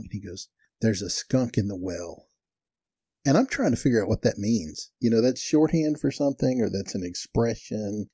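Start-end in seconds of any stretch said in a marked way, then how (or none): 0.8-2.3 slow, measured retold complaint; deadpan statement. Cotton tells the manager what is wrong, slow and deadpan. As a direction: state it slowly, word by word.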